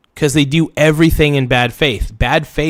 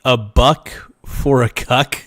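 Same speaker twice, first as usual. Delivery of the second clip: disbelieving repeat; slower than usual. Real, not acted. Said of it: "Did I hear that right?".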